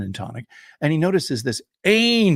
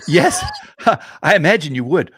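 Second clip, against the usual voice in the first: high, loud polite reply; a hint of the young officer; young man answering the old soldier, high and loud; young Englishman; 8 semitones higher, 8 dB louder than usual.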